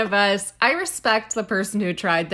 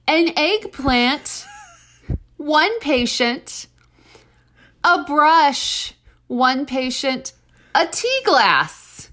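dramatic emphasis; 4 semitones higher, 3 dB louder than usual. Pretend. Mock-dramatic listing of counts.

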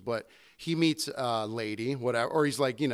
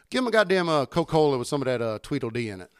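country customer; 3 dB louder than usual. Retold or imitated. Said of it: "this dude's fucking country as fuck".

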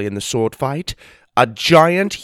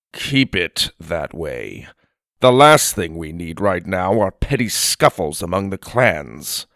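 stern giant; 5 semitones lower than usual. Acted. Giant speaks in story.

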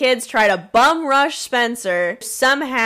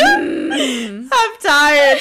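high mock voice; 10 semitones higher, 4 dB louder than usual. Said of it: "Sam's just like".

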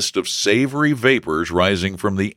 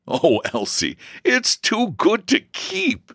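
amused teasing, rising high; laughing; slower than usual. A narrator's reading. Brother delights in sister's secret, laughing. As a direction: tease her with mirth in the voice. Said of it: "laughed George".

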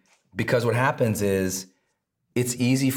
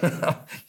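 soft self-laugh; 3 semitones higher, 4 dB quieter than usual. Real, not acted. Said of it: "laughing at myself".

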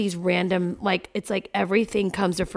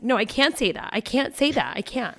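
put-on higher anxious child voice; imitating panicky daughter; 5 semitones higher than usual. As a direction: mimic the girl refusing in a panic. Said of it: "And she's sobbing".

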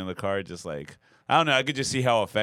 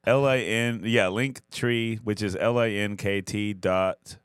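slow, spaced-out spelling while high; stoned; slower than usual. Real, not acted. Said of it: "I'm fucking high".

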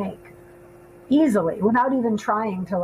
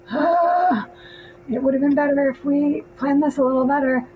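rueful hindsight; 5 semitones higher than usual. Retold or imitated. Quoting regretful self.

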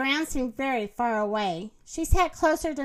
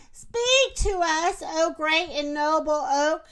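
solemn invocation. Acted. Girl invokes the tree.

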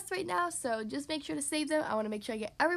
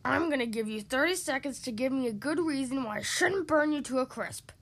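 lightly bellowed dragon threat; bellowing dragon; 3 dB louder than usual. Acted. Dragon threatening Mister Tickle with fire, a mild bellow. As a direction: threaten with a moderate, mock bellow. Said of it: "bellowed the dragon".

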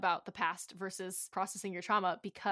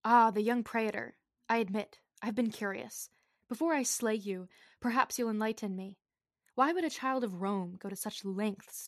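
megalomaniac rant. Acted. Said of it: "very frightening stuff".

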